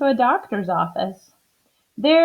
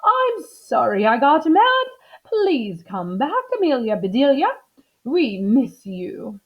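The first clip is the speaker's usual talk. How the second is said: apologetic plea; 5 semitones higher than usual. Acted. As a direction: coax her back gently. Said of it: "said Missus Rogers".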